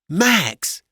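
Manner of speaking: high, loud wifely reproach; loud, high-pitched objection; shocked wife. A narrator's reading. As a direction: cry out in a scandalized high voice. Wife objects to husband's insult.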